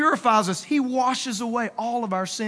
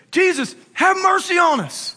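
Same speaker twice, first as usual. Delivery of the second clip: higher-pitched mock plea; crying out; 5 semitones higher, 3 dB louder than usual. Lepers calling to Jesus as he passes, crying out. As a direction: call out for mercy, pitched up. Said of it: "the leper guys crowd and they say".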